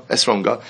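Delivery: Esronga with the final syllable stretched long; drawn-out last syllable. Shown as a demonstration. Teacher shows the arrogant pronunciation, Esronga with the last syllable drawn out. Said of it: "an elongation of that last syllable".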